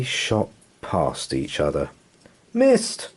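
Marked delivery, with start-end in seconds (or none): 2.5-3.1 high excited shout; roaring crowd. Acted. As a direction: cheer it out as a crowd. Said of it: "roared the crowd".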